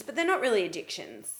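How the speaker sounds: lightly sarcastic denial. Real, not acted. Co-host mocking their own excuses for addictions, lightly sarcastic. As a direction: say it tongue in cheek. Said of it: "I'm being sarcastic when I say it".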